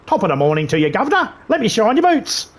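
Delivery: a bad Cockney-style English accent; mock English accent. Mocking Keanu's Dracula role, in a hammed-up English accent. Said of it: "sounding like England".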